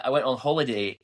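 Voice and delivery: lightly put-on Scottish accent. Shown as a demonstration. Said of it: "I'll stop that now".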